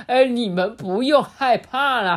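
a hint of a jolly old man; cheerful grandpa reassuring kids; jovial elder voice, lightly done; lightly voiced old grandpa. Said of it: "老爷爷说".

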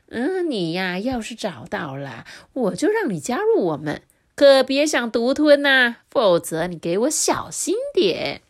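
mild hammed-up intimidation; menacing threat. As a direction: lean in and threaten. Bali threatening Kazi.

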